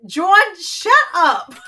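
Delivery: loud, high exasperated outburst; real exasperated yell; exasperated shout. Real, not acted. Wife snaps at her teaser.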